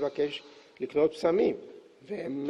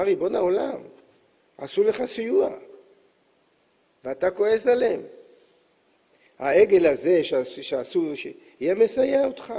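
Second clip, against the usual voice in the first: higher pleading voice, coaxing God; Moses pleading; 4 semitones higher than usual. Acted. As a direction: appease an angry king, voice raised high. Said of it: "עמד לו משה מפייס את האלוקים". (משה מפייס את הקדוש ברוך הוא בקול גבוה ומתחנן)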